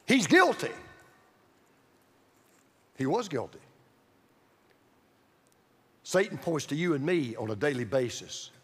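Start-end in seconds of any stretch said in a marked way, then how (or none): 0.0-0.7 accusing courtroom declaration; pointed accusation. Acted. Satan accusing Joshua before the Lord, pointed and emphatic. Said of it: "Satan points to Joshua and he says". 3.0-3.6 low, soft admission; sober concession. Real, not acted. Preacher admitting Satan's charge is true, sober and quiet.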